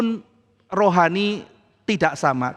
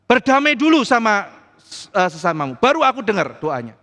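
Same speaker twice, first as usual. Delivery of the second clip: stern command; 3 semitones higher, 4 dB louder than usual. Acted. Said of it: "kata Tuhan".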